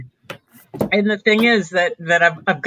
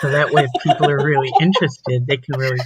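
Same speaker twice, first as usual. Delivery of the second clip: ASMR voice; 5 semitones lower than usual. Shown as a demonstration. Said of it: "I'll use the A S M R voice".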